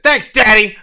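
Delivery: high, loud teasing thanks daddy; loud mock-childish thanks to Daddy; mock sweet child. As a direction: gush it like a little kid. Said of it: "if you said".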